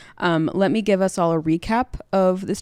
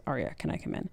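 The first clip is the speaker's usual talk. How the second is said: soft, gentle imitation of a father; 10 dB quieter, faster than usual. Ned at Arya's room after dinner, softly gentle. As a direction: ask quietly, as if at a child's door. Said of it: "gently knocks and says".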